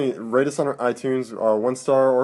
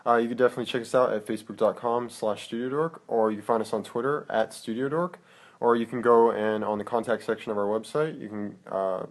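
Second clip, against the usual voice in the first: radio voice; 2 semitones lower, 4 dB quieter than usual. Acted. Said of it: "Did you just get all radio voice on me?".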